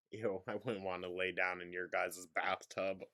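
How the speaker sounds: ordinary delivery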